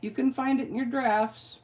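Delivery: lightly voiced dismissive app, high start; mock Instagram refusal. Instagram refusing to post her reel, mock dismissive. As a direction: breezily turn someone down, imitating an app. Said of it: "and Instagram said".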